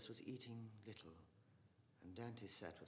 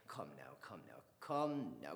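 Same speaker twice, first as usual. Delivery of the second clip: mild hushing; 5 semitones lower, 5 dB louder, slower than usual. Acted. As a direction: hush them like an old peacemaker. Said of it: "raised his hands mildly".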